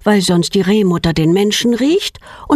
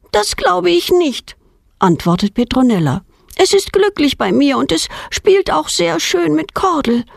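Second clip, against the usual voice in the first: put-on defiant girl; 9 semitones higher than usual. A narrator's reading. Defiant girl answers father.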